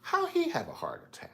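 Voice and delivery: whispered disbelief; whispering. Retold or imitated. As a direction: breathe the question in a whisper. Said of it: "whispered repeat".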